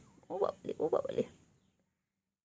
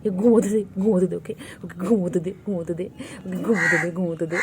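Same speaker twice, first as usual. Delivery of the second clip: scolding; 2 semitones lower, 6 dB louder than usual. Real, not acted. Telling other pet let sleep.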